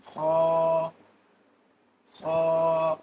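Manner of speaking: Kha said from the upper throat, near the mouth. Shown as a demonstration. Teacher showing students Arabic kha from the upper throat. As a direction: scrape Kha from the top of the throat. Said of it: "Kha will be pronounced by the upper end of your throat".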